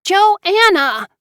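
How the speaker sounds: loud, high furious shout of a name; furious call. A narrator's reading. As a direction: yell her name through the door in fury. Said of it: "she sounded furious".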